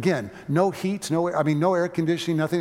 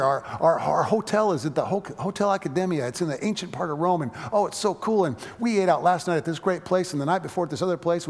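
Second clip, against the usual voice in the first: higher, faster, gushing and hyper; excited chatter; 4 semitones higher, 3 dB louder than usual. Retold or imitated. Nervous guest gushing to a nun at dinner, excited rapid chatter. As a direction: rattle on breathlessly like a nervous, thrilled guest. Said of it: "I was excited and nervous and hyper".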